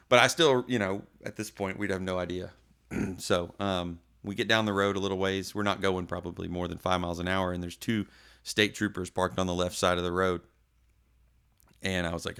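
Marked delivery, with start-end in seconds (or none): none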